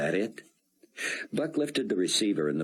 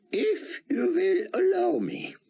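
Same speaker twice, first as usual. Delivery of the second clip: put-on higher, heavy Hebrew-accented rabbi; thick Hebrew accent. A narrator's reading. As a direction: speak English through a thick Hebrew accent. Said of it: "in his thick Hebrew accent".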